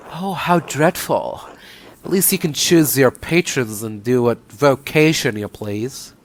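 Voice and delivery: lightly put-on woman's character voice; lightly voiced haughty nun. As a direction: play a discontented nun, understated.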